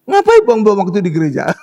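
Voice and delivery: loud, laughing mock scoff; imitating a dismissive friend, laughing. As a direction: sneer at church like a skeptic.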